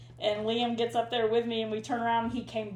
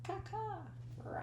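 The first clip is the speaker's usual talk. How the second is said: high bird caws, then a quiet roar; Wilderness Explorer call; 12 semitones higher, 12 dB quieter than usual. Shown as a demonstration. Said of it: "Explorer call".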